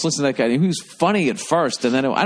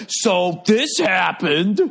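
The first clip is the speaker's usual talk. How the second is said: mock comic tweet; 6 semitones higher, much slower than usual. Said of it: "They just like".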